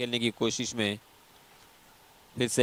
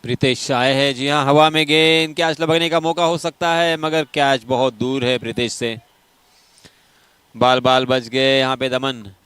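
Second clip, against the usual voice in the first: excited cricket commentary; 3 semitones higher, 7 dB louder than usual. Real, not acted. Wicket chance, near catch.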